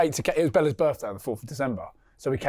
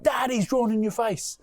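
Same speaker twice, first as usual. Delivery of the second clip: put-on kid's voice; 9 semitones higher than usual. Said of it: "they'll walk in the room and be like".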